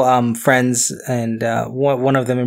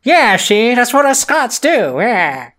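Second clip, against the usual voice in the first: put-on Scottish accent; 8 semitones higher, slower than usual. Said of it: "that's gotta go".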